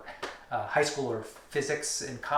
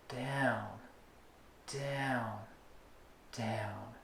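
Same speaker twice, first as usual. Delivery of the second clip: slow fading counted downs, each stressed; rhythmic down cue; 4 semitones lower, 11 dB quieter, much slower than usual. Shown as a demonstration. Teacher demonstrating the needle movement, fading rhythmic counts. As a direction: drop each down softer and softer. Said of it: "your movement will now be".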